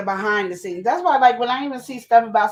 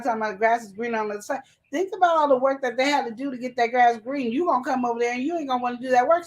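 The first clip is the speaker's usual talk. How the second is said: rapid, rushing bursts; talking too fast; faster than usual. Real, not acted. Coffee-fuelled wife explaining the work behind green grass, talking too fast. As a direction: let the words race ahead. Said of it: "I know I'm talking too fast".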